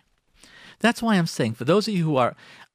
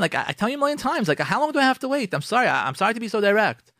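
higher-pitched exasperated griping; acted marital complaint, pitched up; complaining husband; 5 semitones higher, faster than usual. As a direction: play an aggrieved spouse airing a grievance.

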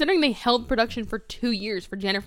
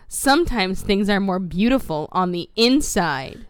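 loud, emphatic moralizing; mock proclamation; 6 dB louder than usual. Hammering the movie's moral to Francis, mock proclamation. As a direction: spell out the moral loudly. Mockingly addressing co-host with moral.

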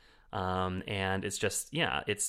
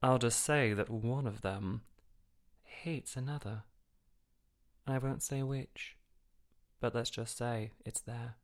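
quoting Richard E. Grant; 3 semitones higher, slower than usual. Retold or imitated. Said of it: "he's just like".

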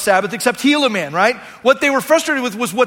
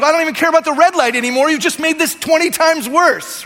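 exasperated cop; 4 semitones higher than usual. Retold or imitated. Cop reacting in disbelief.

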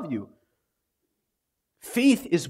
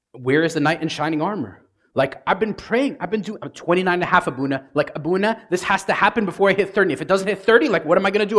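fast, high, anxious rush to the priest; imitating a worried single woman spilling it all out; frantic pleading; 5 semitones higher, faster than usual. Woman pleading with her priest about marrying, frantic. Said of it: "We get a little frantic".

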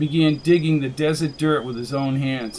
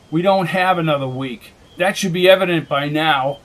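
growling. Acted. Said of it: "growled McKenna".

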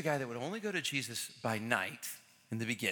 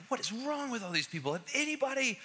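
exasperated Pharisees; 9 semitones higher than usual. Retold or imitated. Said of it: "They're like".

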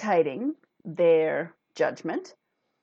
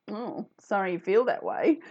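sarcastic apology; 2 semitones higher than usual. Shown as a demonstration. Replying to someone objectionable, mildly sarcastic. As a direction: offer a lightly sarcastic sorry. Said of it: "If you want to be sarcastic".

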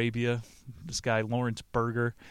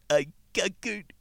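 slow, drawn out and higher; drawn-out seductive; 7 semitones higher than usual. Acted. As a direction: stretch it out slowly, higher. Casanova's line against Caesar's.

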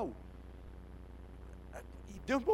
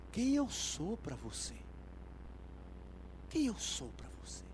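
Jesus asking personally; 3 semitones lower, 7 dB quieter than usual. Acted. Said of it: "Jesus olhar pra senhora e dizer assim".

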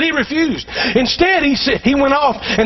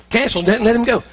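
quick aside; much faster than usual. Shown as a demonstration. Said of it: "Watch this".

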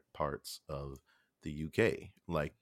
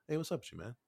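much higher put-on voice; voiced casual chat; 7 semitones higher, 3 dB quieter, much faster than usual. The Wire people chatting to the actor, high mock voice. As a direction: imitate a casual greeting, pitched way up. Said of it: "They were like".

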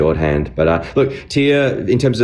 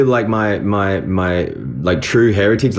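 put-on broad Australian accent, pitched up; Aussie accent; 5 semitones higher than usual. Voice actor doing his Aussie character voice. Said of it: "I used to be like".

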